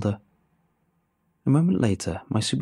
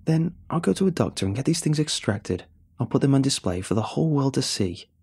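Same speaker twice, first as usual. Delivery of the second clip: higher, urgent protest; desperate defiance; 5 semitones higher than usual. Acted. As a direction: fight back in desperation.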